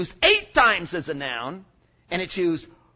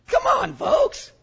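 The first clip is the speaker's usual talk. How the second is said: high call out; 6 dB louder, slower than usual. Real, not acted. Preacher calls out to crowd.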